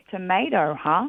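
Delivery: "Tomato" said tuh-MAY-doh, questioning; echoed American pronunciation. Retold or imitated. Mum picking up on her daughter's word, American-style "Tomato". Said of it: "And Mum's like".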